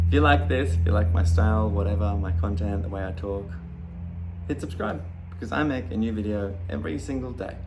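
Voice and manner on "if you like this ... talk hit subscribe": outro pitch. Acted. Subscribe call to action.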